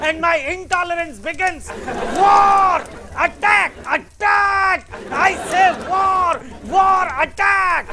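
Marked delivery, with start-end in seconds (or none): 2.2-7.9 shouting. Acted. Comedic warmonger shouting in debate.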